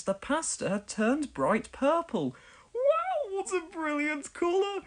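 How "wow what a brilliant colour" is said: grinning. A narrator's reading. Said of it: "he grinned".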